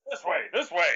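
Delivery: high, loud in-character calling. Acted. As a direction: call the party over noisily, ruining the stealth. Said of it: "uh, loudly".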